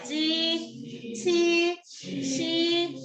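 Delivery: 지, 치, 시 with a plain 이 vowel, tongue not curled; unrolled first-tone syllables. Shown as a demonstration. Teacher modelling pinyin for the class, unrolled 지, 치, 시 on a high level tone. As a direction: hold 지, 치, 시 long on a high level tone. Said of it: "그냥 지 하면 돼".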